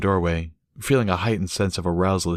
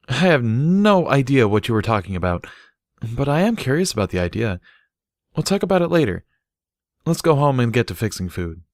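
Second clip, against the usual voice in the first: slightly higher, cheerful dismissal; lightly voiced Barry; 5 semitones higher than usual. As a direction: wave it off, then get practical. Barry shrugs it off.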